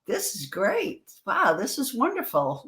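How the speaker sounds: cool as a cucumber. Retold or imitated. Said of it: "as cool as a cucumber going".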